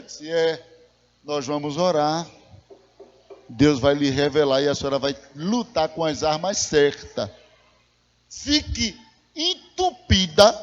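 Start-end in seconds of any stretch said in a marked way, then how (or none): 0.3-7.3 calm pastoral counsel. Retold or imitated. Acted pastoral reply to the woman. 8.3-10.5 drawn-out instruction. Retold or imitated. Acted instruction to wife, stretched out.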